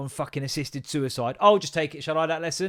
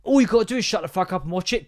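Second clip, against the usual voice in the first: firm, raised, exasperated command; blunt retold order; 4 semitones higher, 4 dB louder than usual. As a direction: snap the order at the class. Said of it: "Can't say shut the fuck up".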